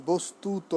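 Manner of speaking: "বস্তুত" slow, with the last vowel held; final open o. Shown as a demonstration. Teacher showing the word-final vowel, "বস্তুত" slow with held o. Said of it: "এরপর শব্দের শেষে অ".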